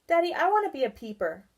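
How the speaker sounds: put-on high, fast, eager child; a child's eager announcement; decided. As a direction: blurt it out excitedly. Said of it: "Barry decided".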